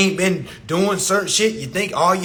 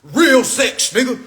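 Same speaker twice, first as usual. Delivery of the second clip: mock bragging shout; 4 semitones higher than usual. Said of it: "men gotta wear this shit like a badge".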